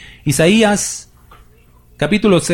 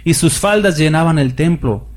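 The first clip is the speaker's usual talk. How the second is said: raised, declamatory Bible reading to the church; scripture reading; 3 semitones higher than usual. Acted. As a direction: read the vision like a proclamation from the pulpit. Reads Isaiah 6 aloud. (lectura bíblica declamada y elevada)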